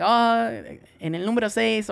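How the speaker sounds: lightly voiced older Mexican lady, high; a hint of an older coworker giving directions.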